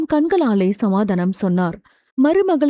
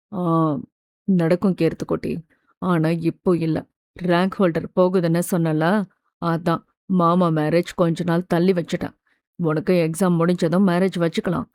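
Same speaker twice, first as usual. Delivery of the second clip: low-pitched, subdued uncle voice; reassuring; 5 semitones lower, 4 dB quieter than usual. A narrator's reading. Uncle answering his niece about the wedding, softly consoling. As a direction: explain gently to a child in a lower register. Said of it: "என்று சமாதானம் சொன்னான்".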